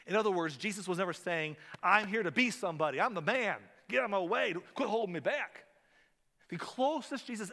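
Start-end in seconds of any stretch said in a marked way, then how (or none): 1.8-5.6 loud, higher, full of himself; a loud self-important bully; pushy egotist. Pretend. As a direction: shove everyone aside. Selfish voice set against Jesus.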